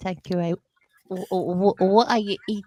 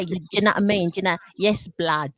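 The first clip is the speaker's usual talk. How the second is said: South London slang impression; faster than usual. Host shows co-host how Londoners talk, South London slang. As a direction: imitate casual South London street talk. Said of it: "Yeah, they say".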